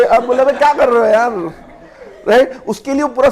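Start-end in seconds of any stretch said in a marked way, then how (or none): 0.4-1.3 Rajesh Khanna impression. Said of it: "Rajesh Khanna के साथ होता".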